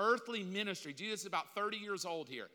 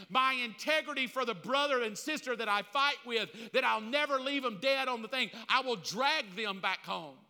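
rising, louder sermon cadence hammering each line; preaching at full force; 2 semitones higher, 3 dB louder than usual. Acted. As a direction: preach it like a rallying cry.

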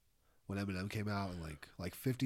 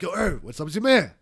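loud rapper bark; angry rapper voice; 8 semitones higher, 12 dB louder than usual. Retold or imitated. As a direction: yell it like a furious rapper. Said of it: "So he's like".

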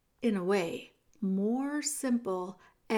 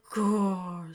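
soft growl; 3 semitones lower than usual. Acted. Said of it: "said Meg softly".

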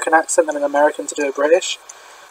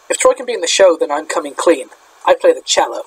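British speaker's half-hearted American; a faint, badly faked American accent; awful American accent. Shown as a demonstration. Host recites school musical lines in an awful American accent. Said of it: "try and say now in my awful American accent".

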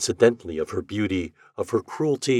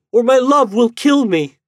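desperate cry; 13 semitones higher, 10 dB louder than usual. A narrator's reading. Lady begging the departing ghost, high and desperate. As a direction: beg him not to go, voice lifted high. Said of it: "she cried".

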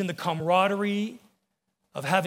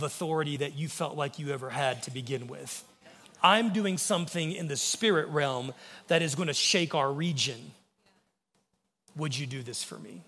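tender voice of God; 3 semitones lower than usual. Retold or imitated. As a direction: speak like a loving father asking his son. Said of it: "this is how he said it to me".

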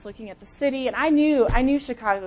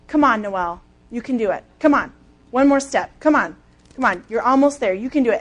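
a touch louder, urging herself on; retold self-encouragement; 5 dB louder than usual. Runner at mile twenty-four urging herself on, mildly raised. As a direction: push yourself through the last miles. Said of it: "I am yelling it out loud".

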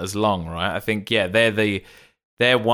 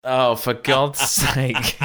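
posh exasperation; much slower than usual. Retold or imitated. Posh voice riffing.

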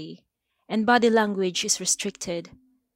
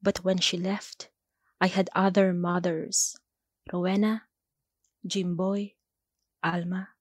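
measured poem recital in short, paused phrases; deliberate spoken-verse delivery with weighted pauses; poetry reading. Acted. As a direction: recite it line by line, letting each image land. Reads own poem before interview.

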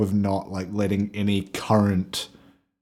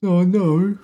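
weirdly nasal; 9 semitones higher, 5 dB louder than usual. Pretend. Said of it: "It's weirdly nasal".

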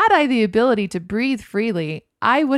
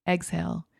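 softer exhale; 5 dB quieter than usual. Shown as a demonstration. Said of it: "focused back on breathing".

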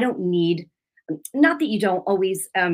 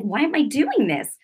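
raised-pitch self-reproach; mad at herself; 5 semitones higher than usual. Retold or imitated. Woman cross with herself, retold mild anger. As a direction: question yourself in mild exasperation. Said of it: "I was mad at myself".

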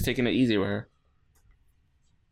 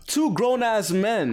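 slow, high exasperated scoff; 9 semitones higher, much slower than usual. Retold or imitated. Speaker scoffing at the wrestlers, slow and high. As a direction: stretch it out in disbelief. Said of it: "I'm like".

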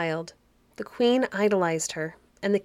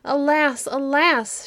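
sorrowful sigh; 7 semitones higher, 5 dB louder, slower than usual. A narrator's reading. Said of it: "sighed deeply".

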